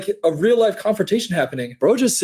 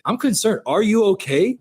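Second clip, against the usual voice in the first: mock concerned; 4 semitones higher than usual. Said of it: "just like".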